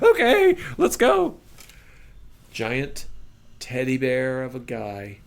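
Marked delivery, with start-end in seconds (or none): 0.0-1.4 very high, loud keyed-up cry; wound-up nerves bursting out; nervous excitement. Retold or imitated. Arriving late with his pants bulging, very high and keyed up.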